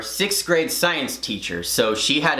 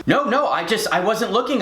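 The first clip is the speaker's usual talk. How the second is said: higher, stammering denial; flustered protest; 6 semitones higher than usual. Retold or imitated. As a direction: imitate a pleading pupil. Accused boy protests, acted.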